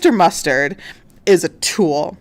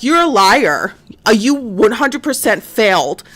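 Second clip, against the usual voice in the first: emphatic mock accusation, pitched up; accusing agent; 4 semitones higher, 4 dB louder than usual. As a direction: imitate an agent confronting a suspect. FBI agent accuses him, retold.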